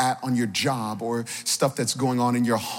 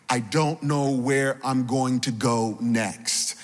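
weary-slow, understated hopelessness; hopeless; 2 semitones lower, slower than usual. Acted. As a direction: voice someone with no idea where to turn, slowly. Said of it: "it just feels hopeless".

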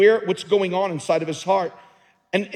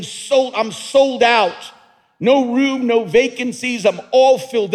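louder, higher joyful church praise; mock praise; 5 semitones higher, 6 dB louder than usual. Pastor imitating worshippers praising God, mock joyful praise. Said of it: "while people are praising God".

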